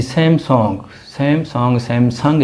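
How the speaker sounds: सैमसंग said sem-song, repeated; सैमसंग with an open o sound; brand name pronounced. Shown as a demonstration. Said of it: "इसको नहीं पढ़ना, सैमसंग".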